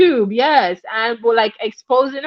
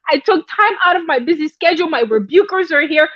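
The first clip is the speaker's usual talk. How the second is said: mock diva; 3 semitones higher, faster than usual. Diva line continues.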